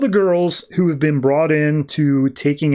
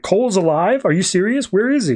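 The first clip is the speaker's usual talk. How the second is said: excited; 5 semitones higher than usual. Retold or imitated. Voodoo jumps up excited.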